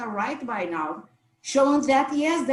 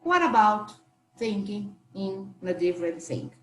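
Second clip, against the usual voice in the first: soft, gentle suggestion; gently; 4 semitones lower, 3 dB quieter than usual. Shown as a demonstration. Suggesting an alternative to a colleague, gentle and soft. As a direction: float the idea kindly, no pressure. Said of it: "very gently say".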